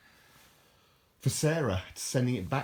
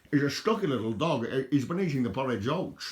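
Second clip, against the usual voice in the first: mock Scottish accent; 5 semitones higher, 4 dB louder than usual. Playful Scottish voice after Scotsman film.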